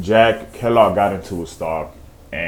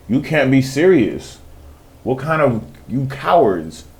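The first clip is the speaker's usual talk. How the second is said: incredulous, pitched up; retold disbelief; 4 semitones higher than usual. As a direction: scold the teammates in high-pitched disbelief. Retells disbelief at fleeing teammates.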